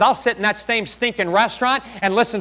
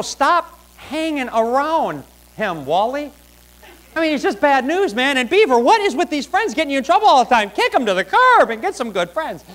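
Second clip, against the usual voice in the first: hint of a scolding parent; hammed-up parental telling-off; lightly voiced parent; 4 semitones higher than usual. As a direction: lecture the boys in mock exasperation. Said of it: "you'd think a parent would".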